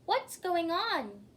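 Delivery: a high, slow yell; yelling Jane. A narrator's reading. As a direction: call out over the storm. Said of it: "yelled Jane".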